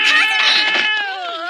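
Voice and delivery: loud friendly call. Acted. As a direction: call across to her. Calling out to a friend.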